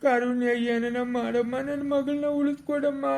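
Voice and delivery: desperate, tearful begging; a parent begging on the edge of tears; tearful plea. Acted. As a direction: plead through tears for help. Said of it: "ಅಳ್ಬೇಡ, ಸುಮ್ನಿರು".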